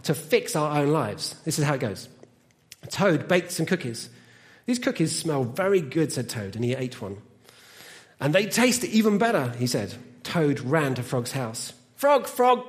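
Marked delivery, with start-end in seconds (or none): 2.8-11.7 animated storytelling with deliberate pauses; children's story reading. Acted. Reads a children's story aloud. 12.0-12.7 higher, louder, drawn-out call; excited calling out. A narrator's reading. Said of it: "cried Toad".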